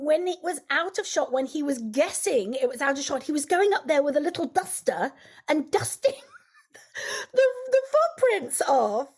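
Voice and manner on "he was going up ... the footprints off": laughing. Real, not acted. Laughing while retelling a funny moment.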